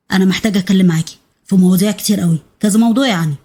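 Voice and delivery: a hint of a firm man's voice; husband's voice.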